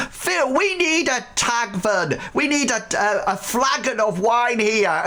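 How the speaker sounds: high, laughing tavern barmaid call; cheery barmaid. Acted. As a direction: shout the order across the bar, jolly. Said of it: "and she says".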